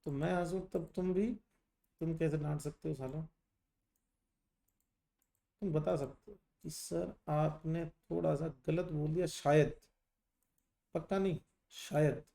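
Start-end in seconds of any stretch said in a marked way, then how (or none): 5.6-12.2 polite correction. Shown as a demonstration. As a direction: gently suggest the teacher slipped, very tentatively. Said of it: "ये तरीका होता बात करने का".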